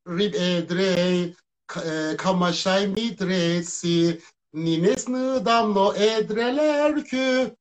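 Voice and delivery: slow, drawn-out reversed song lyrics; backwards speech. Shown as a demonstration. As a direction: sing the lyrics backwards, slowly. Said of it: "Ya çok abartılı değildir ama söylüyorum".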